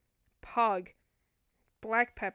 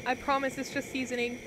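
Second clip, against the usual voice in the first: voice cracking. Real, not acted. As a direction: voice cracks mid-sentence. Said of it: "Why did my voice crack?".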